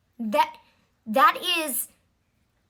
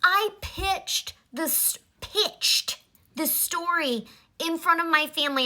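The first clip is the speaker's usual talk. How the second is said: mild mock of a movie star bragging; mocking imitation; 5 semitones higher than usual. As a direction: lightly parrot his self-important tone. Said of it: "Who talks like that?".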